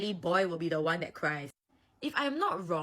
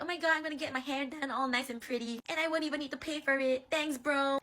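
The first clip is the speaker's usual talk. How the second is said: cheered up; 7 semitones higher than usual. Acted. Atsumu delighted his hair gets done, cheered up. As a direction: gush happily in a raised voice. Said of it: "Atsumu will cheer up".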